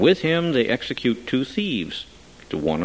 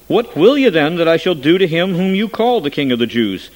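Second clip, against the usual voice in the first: raised voice; 6 semitones higher, 6 dB louder than usual. A narrator's reading. Governor pleads with crowd.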